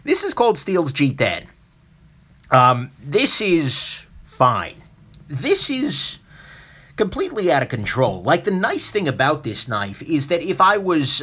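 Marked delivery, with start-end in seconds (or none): 2.5-4.8 slow, unimpressed and matter-of-fact; drawn-out deadpan verdict; deadpan understatement. Acted. Calm verdict on the smooth knife. 5.3-8.2 much higher, an exaggerated exclamation; high-pitched over-the-top exclamation; mock outrage. Exaggerated verdict on the rough knife.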